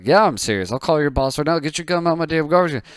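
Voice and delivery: mock angry threat. Boss threatens to call the boss.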